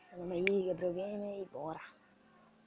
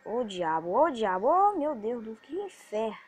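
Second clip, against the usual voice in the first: furious outburst; 3 semitones higher, 12 dB louder than usual. Real, not acted. Gamer cursing his bad luck, furious outburst. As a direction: explode in real frustration, each cry bigger. Loses temper at the game.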